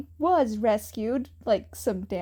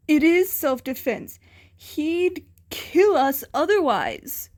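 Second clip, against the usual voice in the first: defensive bully; 3 semitones higher, 5 dB louder than usual. A narrator's reading. Bully voiced, defending himself.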